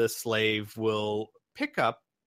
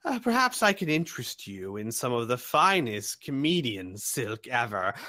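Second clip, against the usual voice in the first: oily merchant voice; 4 semitones higher than usual. Acted.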